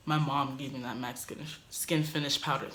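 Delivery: stumbling over "mac Skin, Skin Finish powder", repeating "Skin"; tongue-tied. Real, not acted. Quoting herself to roommate, stumbling on the product name. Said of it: "Dang, I can't say it".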